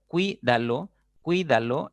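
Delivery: cuídalo with the stress on the í, rising. Shown as a demonstration. Teacher drilling the class, cuídalo stressed on the í. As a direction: repeat cuídalo, hitting the í harder the second time. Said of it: "Es una palabra de tres sílabas".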